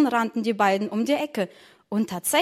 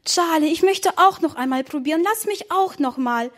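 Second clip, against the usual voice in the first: put-on little girl begging her brother for more; 5 semitones higher than usual. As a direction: beg for one more spoonful. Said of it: "bettelte Emma".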